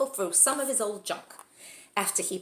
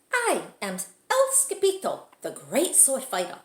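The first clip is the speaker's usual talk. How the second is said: boastful hero; 3 semitones higher, 5 dB louder than usual. Acted. Kitten boasting as swordsman.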